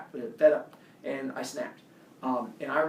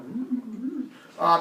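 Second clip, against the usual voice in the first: weak growl back; 7 semitones higher, 4 dB louder, much slower than usual. Retold or imitated. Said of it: "And I'm like".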